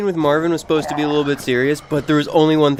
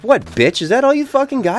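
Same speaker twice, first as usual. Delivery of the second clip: taunting zombie; 7 semitones higher than usual. Retold or imitated. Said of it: "he's like".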